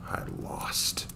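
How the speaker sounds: slow, breathless whisper; defeated whisper. Acted. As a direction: let the words barely come out. Hero's crushing defeat.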